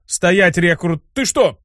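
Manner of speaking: high, urgent order; alarmed command. Acted. Dean stopping the succubus, ordering in alarm. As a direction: halt the recruit in a fluster.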